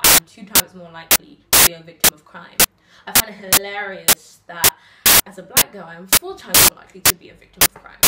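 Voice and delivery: rhythmic spoken-word delivery with deliberate pauses; slam poem recital. Acted. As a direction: perform it as a heartfelt slam poem.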